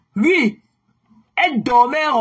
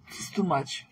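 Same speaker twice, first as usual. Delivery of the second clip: weary; 3 semitones lower, 11 dB quieter, slower than usual. Real, not acted.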